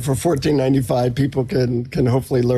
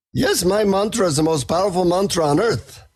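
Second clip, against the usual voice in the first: put-on guru's Indian accent, pitched higher; 4 semitones higher than usual. Guru boasting to a seeker about his mantra, Indian accent. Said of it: "he says in his Indian accent".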